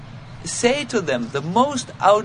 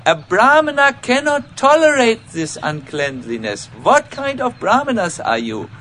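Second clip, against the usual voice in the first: stern rebuke; 5 semitones higher, 8 dB louder than usual. Retold or imitated. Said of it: "And he said".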